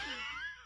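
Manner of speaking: high, breathy laugh at the text; stifled laugh. Real, not acted. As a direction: crack up helplessly while reading. Reader cracks up at the text.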